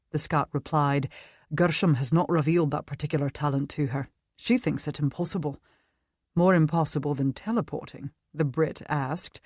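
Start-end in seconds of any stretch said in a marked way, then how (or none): 1.5-5.6 put-on Scottish accent. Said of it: "Scottish accent". 6.4-8.1 put-on British accent. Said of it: "British accent".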